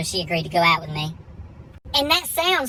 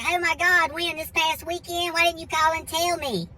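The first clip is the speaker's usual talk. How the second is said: much higher, gushing mom voice; excited mom; 9 semitones higher than usual. Retold or imitated. Mom reacting to son's engagement call, high and excited. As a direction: imitate Mom squealing over big news. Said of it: "I remember calling my mom".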